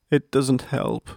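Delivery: a mild, drawn-out groan. A narrator's reading. Young hedgehog telling Dad the breathing failed, mildly groaning. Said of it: "he groaned".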